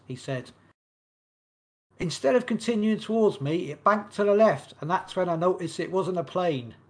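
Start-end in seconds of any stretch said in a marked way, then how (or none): 2.0-6.7 put-on American accent. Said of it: "Notice my great American accent".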